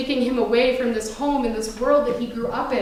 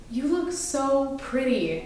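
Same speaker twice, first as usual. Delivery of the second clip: tender compliment; 6 dB quieter, slower than usual. Retold or imitated. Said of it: "he goes".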